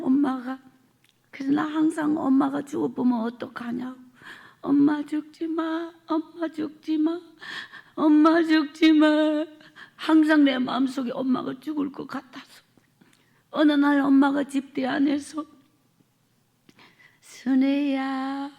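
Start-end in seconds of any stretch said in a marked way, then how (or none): 4.6-9.4 put-on slow, aching plea of a child; slow pleading. Child begging mother not to die. 17.2-18.5 slow whispered name; whispered call. Retold or imitated. Dying mother calls daughter softly.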